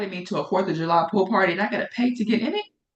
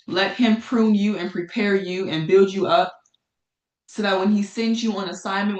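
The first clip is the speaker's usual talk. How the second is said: devotional reading. Acted. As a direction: read it like a short sermon. Reads a devotional encouragement.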